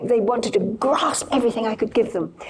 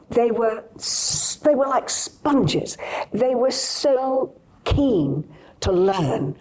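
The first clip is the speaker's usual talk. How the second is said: slowed, moved voice; touch of real emotion; 2 semitones higher, much slower than usual. Real, not acted. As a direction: let the words slow as emotion rises. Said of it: "I get quite emotional thinking about it now".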